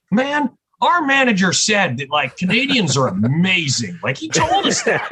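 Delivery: high, giggly imitation of the excited bassist; a laughing high imitation of the bassist; laughing retold quote. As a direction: squeak it out through a laugh.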